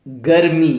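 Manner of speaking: गर्मी said gar-mee, the r sounded before mee. Shown as a demonstration. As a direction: show the r closing the first syllable of गर्मी. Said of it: "रा को मी के पहले बोलेंगे". (गर्मी में र को मी से पहले बोलें)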